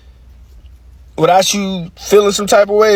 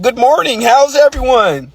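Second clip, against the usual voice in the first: code-switch greeting; 4 semitones higher than usual. Retold or imitated. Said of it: "live in a code switch".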